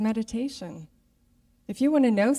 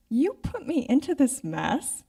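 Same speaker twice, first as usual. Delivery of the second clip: loud, indignant railing at God, voice raised and higher; retold rant, higher and louder; mad at God; 5 semitones higher, 5 dB louder than usual. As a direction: reenact the old fury at God, complaining hard. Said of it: "I spent three months on being mad at God".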